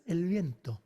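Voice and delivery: "viento" with a crisp, clean T. Shown as a demonstration. Teacher corrects students' Spanish, crisp T in viento. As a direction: say "viento" with no sibilance on the T. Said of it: "It's crisp".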